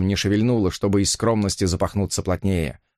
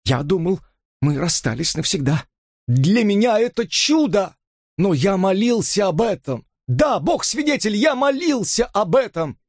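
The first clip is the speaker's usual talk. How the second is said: ecstatic pleading; 10 semitones higher than usual. A narrator's reading. Robert pleads ecstatically with Elisa.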